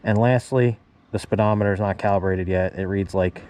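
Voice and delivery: muffled through a motorcycle helmet; talking through a helmet. Real, not acted. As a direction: speak from inside a helmet. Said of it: "I'm talking through my helmet".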